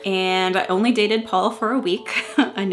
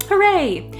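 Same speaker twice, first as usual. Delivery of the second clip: cheering; 10 semitones higher, 4 dB louder than usual. Retold or imitated. Reading diary cheer.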